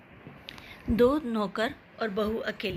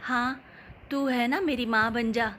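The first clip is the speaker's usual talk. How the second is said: sulky sarcasm; 2 semitones higher than usual. Acted. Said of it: "सास मुँह बनाते हुए बोली".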